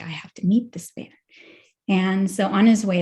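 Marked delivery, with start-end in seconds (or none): 0.0-1.1 whisper. Retold or imitated. Ascetic resolves to meet shopkeeper.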